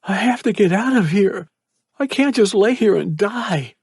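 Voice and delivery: whispered plea. Acted. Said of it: "He whispered".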